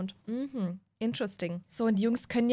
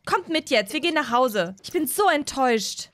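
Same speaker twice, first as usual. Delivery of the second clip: scolding mom; 3 semitones higher, 4 dB louder than usual. Acted. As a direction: scold the boys like a let-down mom.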